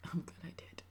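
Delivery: a quiet whispered afterthought; whispered echo. Real, not acted. Whispering her relief to viewers, softly whispered. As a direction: repeat it in a soft whisper, to herself.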